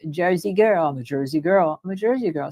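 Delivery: Jersey accent. Shown as a demonstration. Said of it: "I speak Jersey".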